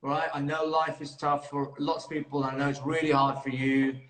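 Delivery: slow, earnest comfort at first; steady, heartfelt reassurance; sincere reassurance. Real, not acted. Consoling the other man, sincerely.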